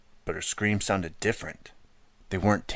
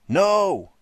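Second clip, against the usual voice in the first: high loud scream; boy screaming as the lock turns; terrified scream; 12 semitones higher, 9 dB louder than usual. A narrator's reading. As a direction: scream it in panic. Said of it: "I yelled".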